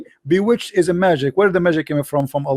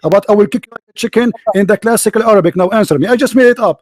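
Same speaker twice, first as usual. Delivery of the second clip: raised, insistent debating voice; heated challenge; 3 semitones higher than usual. Real, not acted. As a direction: press the opponent hard for an answer. Heated debate, demanding an answer. (تحدٍّ بصوت مرتفع)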